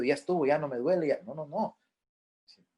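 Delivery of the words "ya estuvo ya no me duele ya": rushed mock mourner. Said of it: "la persona va a llorar rápido".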